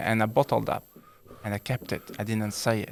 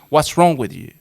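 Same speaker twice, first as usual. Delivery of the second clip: loud, blaming challenge; accusing husband; 8 dB louder than usual. Retold or imitated. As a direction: throw it at her as a complaint. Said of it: "And instead of saying".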